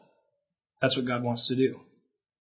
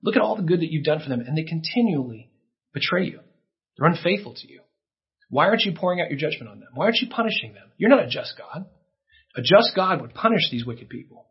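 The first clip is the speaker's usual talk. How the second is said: higher-pitched, scornful accuser; accusing Satan; 3 semitones higher than usual. Acted. Preacher voicing Satan accusing God's people, scornful and accusing. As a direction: jeer at God like a prosecutor. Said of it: "He says".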